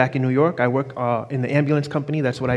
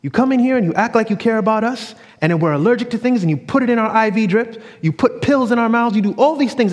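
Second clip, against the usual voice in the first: sister accusing staff; 6 semitones higher than usual. Retold or imitated. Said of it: "she says".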